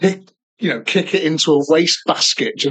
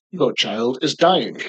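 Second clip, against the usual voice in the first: very slow pretend machine announcement; ominous bin; much slower than usual. Imagined bin reacts to kid's nappy, slow announcement. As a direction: deliver the mock diagnosis word by slow word.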